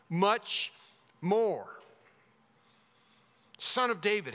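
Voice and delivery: crying out. Acted. Blind beggar calling to Son of David, crying out. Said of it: "he kept crying out".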